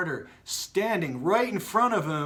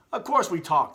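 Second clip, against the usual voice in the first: bouncily; 4 semitones higher, 5 dB louder than usual. Acted. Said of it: "the ball said bouncily".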